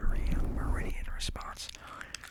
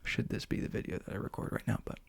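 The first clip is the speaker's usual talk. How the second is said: ASMR whisper. Real, not acted. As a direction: whisper gently into the mic.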